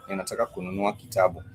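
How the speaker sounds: quick repeat. Shown as a demonstration. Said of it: "So you say".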